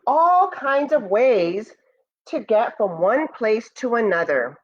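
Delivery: slow, gentle read-aloud voice; storybook narration. Acted. Teacher reading Moon's First Friends to students, storybook voice. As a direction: read it like a bedtime story for the class. Reads picture book aloud.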